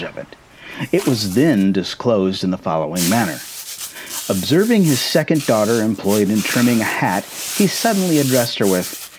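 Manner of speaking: even, measured reading of a classic novel; story narration. A narrator's reading. Parent reading a novel aloud to a child, measured storytelling voice. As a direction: read it like a bedtime chapter.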